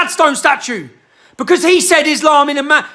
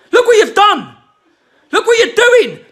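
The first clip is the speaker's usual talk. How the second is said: angry cry; 5 semitones higher than usual. Real, not acted. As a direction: throw it at them in outrage. Furious rant at protesters.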